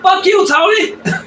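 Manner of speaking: very high dog voice, laughing; other meme dog. Retold or imitated. One meme dog answers the other, high comic dog voice. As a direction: squeal it back as the dog, half laughing. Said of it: "And the other dog's like".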